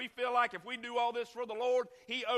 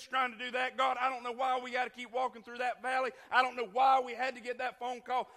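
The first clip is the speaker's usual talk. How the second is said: mildly angry pleading, replayed; retold upset complaint; 2 semitones higher than usual. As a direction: re-enact an agitated argument with God. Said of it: "talk to yourself angry".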